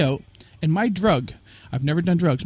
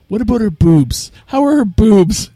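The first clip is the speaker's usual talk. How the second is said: imitating Jeff; 5 semitones higher, 8 dB louder, slower than usual. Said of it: "And he goes".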